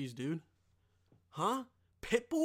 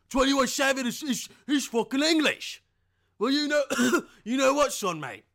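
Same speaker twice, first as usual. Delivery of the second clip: loud, higher mock English accent; hammed-up English bloke in a loud, higher register; 6 semitones higher, 8 dB louder than usual. Playing an English bloke bragging about a rapper, mock English accent. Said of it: "now he's fucking English, mate".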